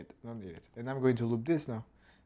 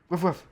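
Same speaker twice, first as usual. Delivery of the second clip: quick spoken woof-woof, pitched up and louder; short double dog bark, higher voice; imitated bark; 7 semitones higher, 6 dB louder than usual. Animator voicing the puppet's mouth movement, barking woofs.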